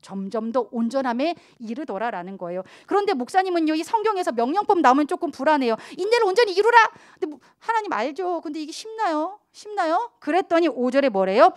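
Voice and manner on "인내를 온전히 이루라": scripture recitation. Acted. Quoting scripture command.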